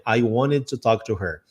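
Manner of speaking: slow "I wanted to talk to her", each word separate; unlinked "wanted to", said slowly; laboured careful pronunciation. Shown as a demonstration. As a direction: show how awkward a full "wanted to" is. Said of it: "dá essa dificuldade de falar".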